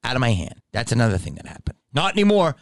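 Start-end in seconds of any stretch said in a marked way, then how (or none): 1.9-2.5 higher, condescending mock refusal; scolding a child. Guest mimicking the hotel man, scolding as to a child. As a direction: imitate someone punishing a small kid. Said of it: "Like I'm fucking five".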